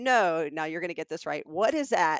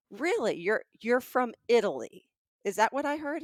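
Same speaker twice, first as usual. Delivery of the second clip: higher-pitched skeptical challenge; pushing back; 4 semitones higher than usual. Retold or imitated. Shopper challenging the seller's origin, incredulous pushback. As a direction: question him as if disbelieving your ears. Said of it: "So I kinda pushed back".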